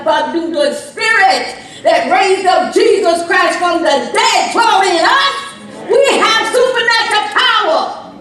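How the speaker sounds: fiery full-voiced preaching. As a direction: preach it with fire, loud and high.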